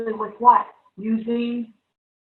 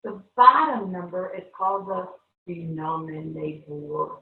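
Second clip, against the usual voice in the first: lightly voiced Terminator robot for the kids; a hint of robot voice, stretched out; 4 semitones lower than usual. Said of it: "everybody got those voices on again?".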